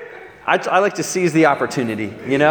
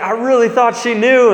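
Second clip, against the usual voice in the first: raised-pitch retold freak-out; bugging out; 5 semitones higher than usual. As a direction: imitate a rattled friend, voice pushed up. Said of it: "he's bugging out".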